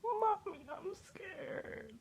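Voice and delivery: mock little-kid whimper. Calling mommy, frightened.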